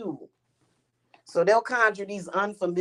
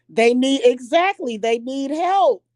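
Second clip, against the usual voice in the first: mock pity; 4 semitones higher, 6 dB louder than usual. Mocking rivals who need help.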